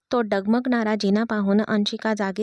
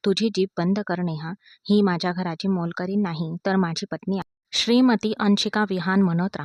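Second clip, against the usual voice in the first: firm clear voice. Acted. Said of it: "कठोर नजरेने पाहिले आणि स्पष्ट आवाजात म्हणाला".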